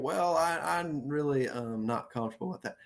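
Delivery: timid, hedging refusal; hesitant, unsure. Shown as a demonstration. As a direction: waver and hedge like you're afraid to say it. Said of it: "I'm not saying".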